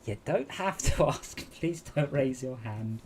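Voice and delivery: slow, patient put-on boss voice; bemused boss. The boss telling the shy new hire not to raise his hand, slow and bemused. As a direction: gently let the new guy down, slowly. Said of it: "And he's like".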